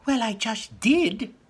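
high, slow smug goblin voice. Acted. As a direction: shrug it off slowly and high.

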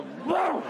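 high, punchy boom; mock boom. Acting out drowning the dog, a high punchy boom. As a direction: slam the sound out.

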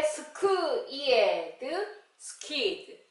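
"스크, 이에드" in separated sounds, then "스키드" joined; phonics blending. Shown as a demonstration. Teacher reading SK words, segmenting sounds then blending them. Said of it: "에스케이 글자로".

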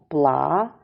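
пла-ка-ти with long gaps between parts; syllable by syllable. Shown as a demonstration. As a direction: pause after each piece of пла-ка-ти. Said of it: "Ділимо на склади слово".

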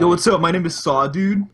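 playful character bit; casual monster greeting. Acted. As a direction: introduce yourself jokingly as the monster. Voicing movie monster as casual.

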